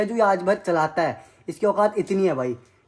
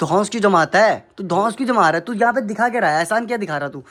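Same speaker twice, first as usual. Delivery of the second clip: loud angry yelling at his brother; furious, in-your-face shouting; real anger; 4 dB louder than usual. Real, not acted. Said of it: "गुस्सा आ रहा मेरे को". (गुस्से में ज़ोर से चिल्लाना)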